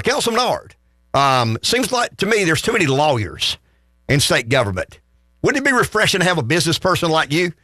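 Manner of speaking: a hint of an eager fan phoning in; proper caller. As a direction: play a courteous, deferential radio caller. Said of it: "You know, they've been proper".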